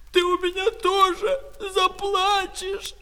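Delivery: high angry cry, stretching the last word; shouted threat. Acted. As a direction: shout a furious threat up at your brother. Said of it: "кричала Катя".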